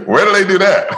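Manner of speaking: very high, incredulous mock question; amazed disbelief. Reacting to the promise of transcendence, high mock disbelief. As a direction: squeak it out as playful astonishment.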